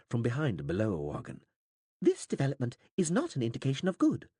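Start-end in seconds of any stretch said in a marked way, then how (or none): 2.0-4.3 alien interpreter. A narrator's reading. Alien interpreter speaks calmly.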